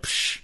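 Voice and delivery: imitated scoffing puff; a soft, brush-off "psh"; dismissive psh. Kid brushes off the man questioning him, dismissive scoff. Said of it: "gave me that dismissive".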